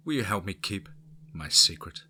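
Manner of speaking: exaggerated Cockney storyteller; Cockney accent. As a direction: lay on the Cockney, East End London. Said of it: "I brought forth my Cockney".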